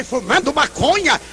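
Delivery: the mother hearing her son smokes; incredulous echo. Retold or imitated. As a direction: echo it back as if it cannot be true. Mother echoes the news in disbelief.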